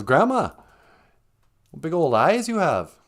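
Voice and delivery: hammed-up girlish wonder; wondering Little Red. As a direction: exclaim it like a storybook girl. Voices Little Red's surprise at wolf.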